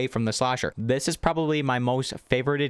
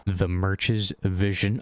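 muffled behind a hand, slow; talking through fingers in awe; hand over mouth; 5 semitones lower, much slower than usual. Real, not acted. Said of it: "I have my hand over my mouth".

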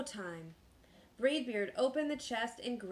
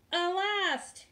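higher-pitched pirate yell; dismayed yell; 8 semitones higher, 4 dB louder than usual. A narrator's reading. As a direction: call it out in dismay. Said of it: "yelled Braidbeard".

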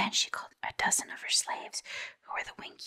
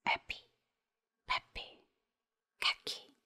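slow incantation. Acted. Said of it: "said slowly".

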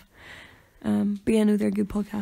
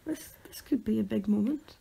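dramatic whisper; 5 dB quieter than usual. Pretend. Mock dramatic hush.

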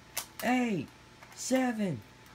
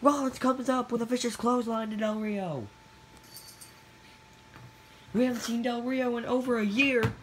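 play-by-play commentary; faster than usual. Acted.

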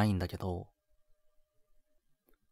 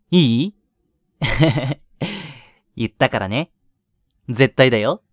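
louder, teasing demand for a promise; playful insistence; 2 semitones higher, 9 dB louder than usual. Acted. Boyfriend making his girlfriend promise a date, loud and teasing.

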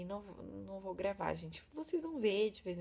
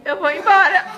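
desabafo rindo; 13 semitones higher, 19 dB louder than usual. Real, not acted. Frustração cômica de ir embora.

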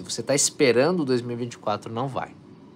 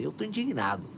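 repeated, softer each time, fading down; fading affirmation; 2 semitones lower, 7 dB quieter than usual. Shown as a demonstration. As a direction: let the words sink in, quieter each time. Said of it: "Vibra essa frequência".

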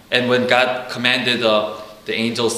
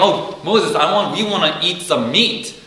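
higher whiny voice tired of manna; complaining Israelites; 5 semitones higher, 4 dB louder than usual. Retold or imitated. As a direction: nag Moses for meat.

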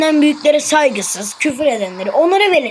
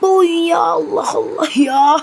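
exasperated wail. Real, not acted. Exasperated at the game.

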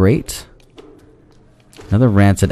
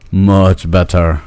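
drawn out; 3 semitones lower, much slower than usual. Shown as a demonstration.

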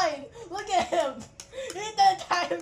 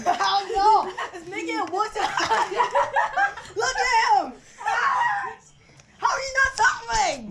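horrified amusement; 4 semitones higher, 4 dB louder than usual. Real, not acted. Laughing at friend not suffering.

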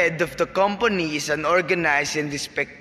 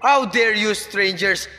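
indignant outrage; 3 semitones higher than usual. Acted. Rich father scolds the court, outraged. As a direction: berate them like servants.

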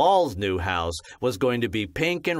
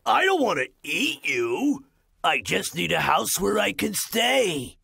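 lightly higher pleading wolf; gentle wolf; 5 semitones higher than usual. Acted. Wolf pleading to the pigs, a touch higher. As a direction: explain sadly, meaning no harm.

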